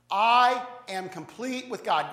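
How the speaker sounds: slow, firm, stressed "I"; call to repeat. Shown as a demonstration. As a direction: lead the congregation line by line. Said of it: "I want you to say this with me".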